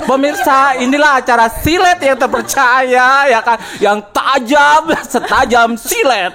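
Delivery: lightly voiced gossip-show host. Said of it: "masih pembawa acara ini".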